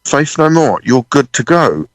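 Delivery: slow, stunned echo of the runner; dazed realisation. Retold or imitated. Drummer alone backstage realising he's got away with it, dazed. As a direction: repeat it slowly as it sinks in. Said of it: "I'm just there backstage in this corridor going".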